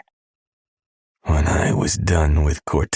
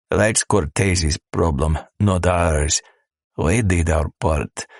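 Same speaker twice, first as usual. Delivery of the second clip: put-on Hispanic accent. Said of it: "with a heavy Hispanic accent".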